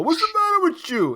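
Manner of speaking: very high mock scolding; high-pitched impression of a boxer's outburst; Rocky. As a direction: imitate an exasperated trainer, pitch way up. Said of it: "So Rocky's caught that on from Apollo".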